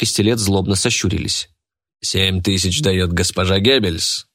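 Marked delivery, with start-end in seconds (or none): none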